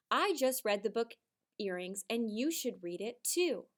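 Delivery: model reading. Shown as a demonstration. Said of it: "rewrite it together".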